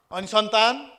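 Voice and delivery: high, loud nosy question from an elder; elder leans in and asks about a grandchild; prying elder. Retold or imitated.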